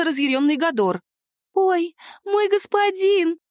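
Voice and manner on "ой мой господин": high, slow, gasping mix of delight and fright; thrilled and scared. Acted. House spirit greets her angry dragon master, high and slow, delighted and scared. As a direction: squeal it out, overjoyed and terrified at once. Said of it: "пробормотала Махрыня одновременно и восторженно, и испуганно".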